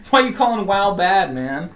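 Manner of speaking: loud, high, laughing protest; laughing mock outrage. Real, not acted. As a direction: tease him through laughter. Teasing friend who knocked WoW.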